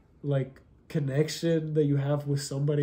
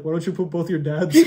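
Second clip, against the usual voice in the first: laughing; 3 dB louder than usual. Real, not acted. Joking jab at sister, laughing.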